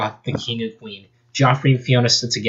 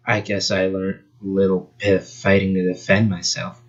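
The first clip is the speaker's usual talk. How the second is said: flat and unbothered, lower; deadpan voice; 3 semitones lower than usual. Acted. Fox girl answers Sonic in a deadpan voice. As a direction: say it dry and bored. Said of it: "she'd have a deadpan voice".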